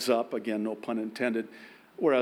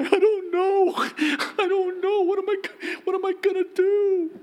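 high, loud, wailing panicked groom voice; 7 dB louder than usual. Retold or imitated. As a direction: play the groom falling apart in a high whine. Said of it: "I had one, one groom say".

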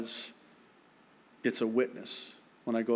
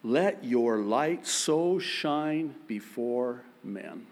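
slow, solemn reading of the verse; scripture reading; slower than usual. Acted. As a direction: read it like Scripture, unhurried. Reads scripture slowly.

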